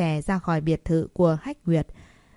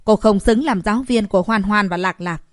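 raised, angry voice; a touch of fury, spoken louder; angry declaration; 2 semitones higher, 5 dB louder than usual. Acted. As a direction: tell the teacher off sharply. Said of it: "vô cùng tức giận mà nói".

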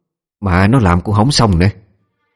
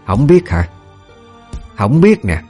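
mildly acted scolding, pitched higher; angry mistress; 4 semitones higher, slower than usual. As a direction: throw it back as a mild angry taunt. Mistress beating the servant boy. (giọng bà chủ gằn dằn mặt, hơi tức)

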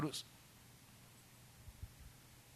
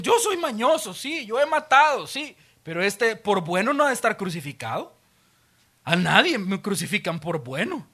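boastful thief. Acted. Thief crucified beside Jesus bragging, cocky. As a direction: brag like a street crook.

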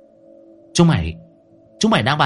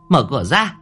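shrill order; 4 semitones higher than usual. A narrator's reading. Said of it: "bà ta nói như rít lên".

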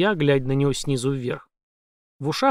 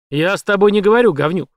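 громко, выше; грубо обрывает; злой окрик; 5 semitones higher, 7 dB louder than usual. A narrator's reading. Шекет обрывает. (злобно обрывает)

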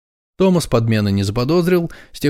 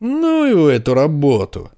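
loose drawl; 4 semitones higher than usual. Acted. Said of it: "развязно протянул Томас".

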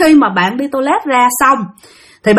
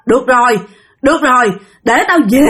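a hint of a lowered, flat ghost voice. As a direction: let the voice drop, mildly. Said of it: "cái bà hạ cái giọng xuống".

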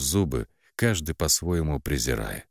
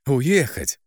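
higher, scornful sneering jeers; mocking sister; 6 semitones higher than usual. A narrator's reading. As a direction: sister mocks her runaway sibling, sneering and higher. Sister mocks heroine's wish to leave.

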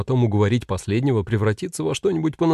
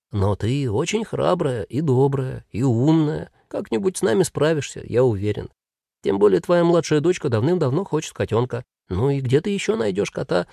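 persuasive demon; 3 semitones higher than usual. Acted. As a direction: talk the mother round gently.

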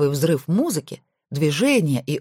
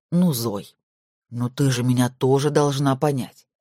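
confiding; 3 semitones lower than usual. A narrator's reading. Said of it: "доверительно сказал".

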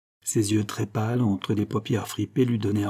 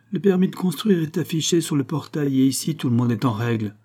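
a touch higher, sharp and dismissive; curt tone; 5 semitones higher than usual. Acted. Site owner brushing off the police, curt. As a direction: brush the cop off curtly. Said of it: "d'un ton cassant".

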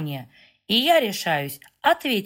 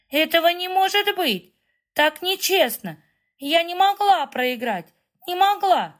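wailing tantrum; 9 semitones higher than usual. A narrator's reading. Kitty crying after losing the duel, high wailing tantrum. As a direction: wail it like a spoiled child losing. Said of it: "начинает рыдать в голос".

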